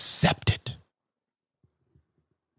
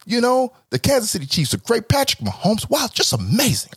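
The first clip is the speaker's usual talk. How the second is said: perky suburban small talk, pitched way up; 10 semitones higher than usual. Retold or imitated. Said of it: "I'm delivering it in a white tone".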